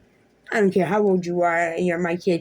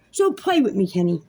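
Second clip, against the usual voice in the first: angry dare. Real, not acted. Daring the ex to keep fighting, raised and angry. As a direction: challenge him, voice raised.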